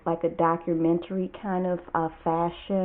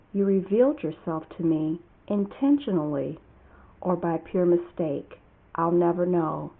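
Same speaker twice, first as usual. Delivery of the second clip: measured poem recital with long pauses between lines; deliberate, spaced-out verse reading; poetry reading. Acted. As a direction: read your own poem line by line, letting each phrase stand. Reads own poem aloud.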